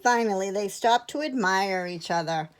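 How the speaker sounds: measured picture-book narration with long pauses; clear, unhurried storytelling; story reading. A narrator's reading. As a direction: read it to young children. Reads a picture book to children.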